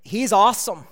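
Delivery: "awesome" tossed off lightly, the throwaway way; a quick offhand "awesome" about nothing much; casual everyday awesome. Shown as a demonstration. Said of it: "We say awesome about everything".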